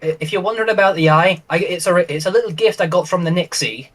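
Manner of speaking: lightly voiced young character; a hint of a youthful role voice; young Grendel. Shown as a demonstration. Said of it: "What's something that I can, like, say as Grendel".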